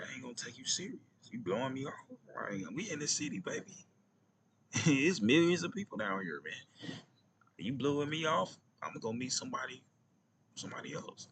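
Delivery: high and playful, teasing her; mock bold challenge. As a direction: call her bluff with a laughing lift. Retold challenge to the girl.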